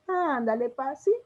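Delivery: pleading daughter. Shown as a demonstration. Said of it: "hasta la entonación de la voz nos cambia".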